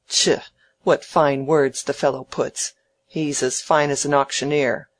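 mild scornful grumble at fine words; snappish old Featherstone. Acted.

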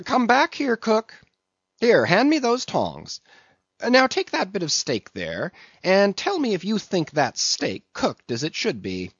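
very high, insistent ordering voice; imperious calling. A narrator's reading. Mate ordering the cook to taste, imperious. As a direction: call him back, pitched right up.

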